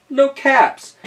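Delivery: high, loud exclamation; exclaimed discovery. Acted. Storyteller acts out the peddler's search, exclaiming.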